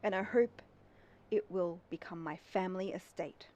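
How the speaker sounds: lightly voiced old captain reading his diary; diary narration. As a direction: read it like a calm journal entry. Reads the keeper's diary aloud.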